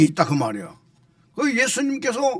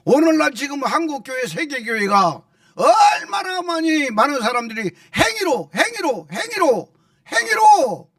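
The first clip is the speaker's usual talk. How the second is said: impassioned preaching; 6 semitones higher than usual. Real, not acted. Pastor warning churches against relying on works, impassioned preaching. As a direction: build to forceful, repeated exclamations.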